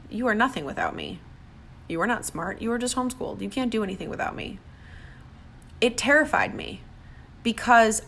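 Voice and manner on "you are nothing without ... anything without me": ex-husband's put-down. Retold or imitated. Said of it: "my existence with my first husband".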